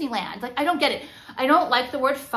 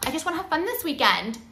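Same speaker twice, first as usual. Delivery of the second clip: higher, lightly mocking voice; imitated fun-seeker; 4 semitones higher, much faster than usual. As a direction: mimic a weekend fun-seeker, pitched up. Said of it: "if someone, like, says".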